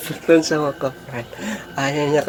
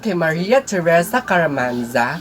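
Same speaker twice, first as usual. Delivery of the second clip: slow, lilting list reading; shout-out roll call; 2 semitones higher, slower than usual. Real, not acted. Vlogger reads viewers' names, slow sing-song roll call. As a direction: draw out each name with a swinging tune.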